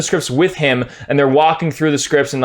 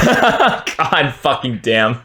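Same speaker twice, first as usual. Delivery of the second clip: exasperated laugh; 2 semitones lower, much slower than usual. Real, not acted. Laughing exasperation after rant.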